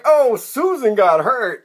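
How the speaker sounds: high, slow teasing coo; mocking sympathy. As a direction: tease a friend for being a crybaby, stretching it out. Guys mock him as a crybaby.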